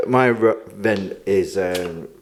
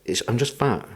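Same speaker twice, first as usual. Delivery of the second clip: softer, understated imitated reply; deadpan retort; 6 dB quieter than usual. Friend answering belly touchers, imitated deadpan retort. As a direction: drop it quietly, completely matter-of-fact.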